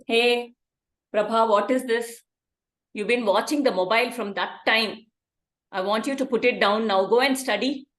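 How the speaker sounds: put-on mildly stern parent confronting a child; lightly acted cross parent; scolding parent. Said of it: "I will be a parent".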